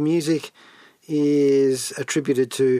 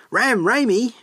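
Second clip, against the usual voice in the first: Scooby-Doo voice; 8 semitones higher than usual. Retold or imitated. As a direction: say it like the cartoon Great Dane. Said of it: "as Scooby-Doo would say".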